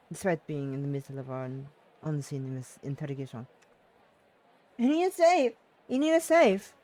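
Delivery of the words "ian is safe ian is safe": high, loud joyful shouting; excited cheer. Acted. Dancers cheer loudly that Irina is safe. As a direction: cheer it out with relief.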